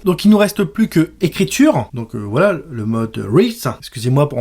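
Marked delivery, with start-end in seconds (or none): 3.2-3.5 French-accented English. Real, not acted. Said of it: "mon accent anglais déplorable".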